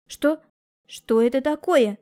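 startled high question, slow; wife spotting the screen, mild fright; frightened. A narrator's reading. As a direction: ask in alarm. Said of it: "испуганно спросила она".

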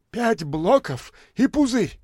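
высоко, с напором; повтори требование; требующая бомжиха. A narrator's reading. (бомжиха требует у дамы, с напором)

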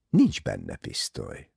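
low, gentle "no"; kindly. A narrator's reading. Poirot handing back the bag, kindly. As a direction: concede it kindly. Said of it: "mondta kedvesen".

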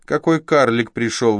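loud, high exclamation; girl calls to Vasya, loud, high and gleeful; exclaiming girl. Acted. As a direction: point him out with glee. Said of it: "воскликнула вдруг девица".

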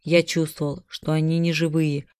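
usual speaking voice

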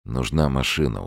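plain reading voice

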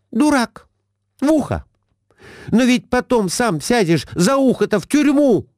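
high, scornful outcry; Глафира exclaiming. A narrator's reading. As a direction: snap at the husband, up high. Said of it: "воскликнула она". (высокий презрительный возглас жены)

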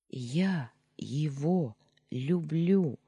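very slow, each word set apart; said distinctly. Acted. Yulia telling Danya plainly, slow and distinct. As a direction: pronounce every word clearly and firmly. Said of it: "чётко проговорила я".

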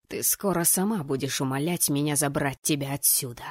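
low, menacing male voice; hissed threat. Acted. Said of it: "прошипел он".

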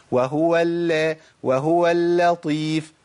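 slow وهو اللطيف with thin doubled lam; light smiling lam. Shown as a demonstration. Teacher models an easy smile, light doubled lam. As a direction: stretch the light lam, then heavy ta in اللطيف. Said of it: "بسيطة".

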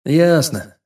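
stretched-out word; drawn out. A narrator's reading. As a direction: drag the word out. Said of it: "протянул он".

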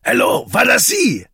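an impatient police chief on the phone; sharp, annoyed official answering; irritable commissaire. Acted. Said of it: "Begin's irritable voice answered".

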